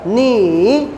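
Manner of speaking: नी said as a full falling-rising third tone; नी dipped down then up, the wrong way. Shown as a demonstration. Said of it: "इसको मैं ऐसे नहीं पढ़ रहा". (नी को third tone में गिराकर फिर उठाकर)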